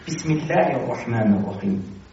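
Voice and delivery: low, slow recitation with a light, thin "الله"; thin Allah. Shown as a demonstration. Teacher showing the rule, "الله" recited with a thin l. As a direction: keep the l in "الله" light and fine after an i sound. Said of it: "باید تو همین ظریف تلفظ کنی".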